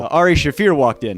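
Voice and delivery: normal talking voice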